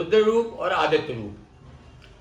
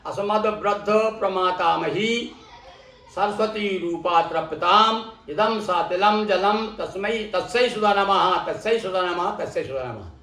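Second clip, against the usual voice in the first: mantra recitation. Shown as a demonstration.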